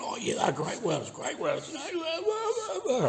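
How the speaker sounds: high, squeaky mock commenter, trailing into laughing blahs. Mocking the commenter's welder praise, high and laughing. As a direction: parody the guy gushing over welders, voice squeaking up. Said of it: "he's going".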